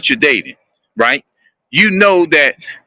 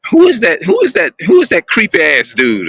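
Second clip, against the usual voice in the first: woman alarmed; 3 semitones higher than usual. Retold or imitated. Woman spotting a stranger staring, mock alarmed and higher. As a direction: play the startled woman, lightly voiced. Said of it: "the woman may say something like".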